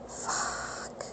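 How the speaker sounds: very soft, drawn-out whisper of frustration; whispered swearing. Real, not acted. Learner frustrated at forgetting German, whispered curse. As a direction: curse to yourself under your breath.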